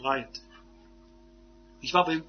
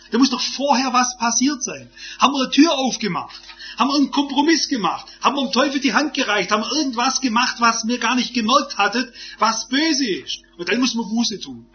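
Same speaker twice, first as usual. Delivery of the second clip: raised, insistent rhetorical questions, quickening as they pile up; forceful preaching; 4 semitones higher, 3 dB louder than usual. Real, not acted. Preacher challenging the congregation over what went wrong, forceful preaching. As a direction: preach it in urgent, rapid-fire questions.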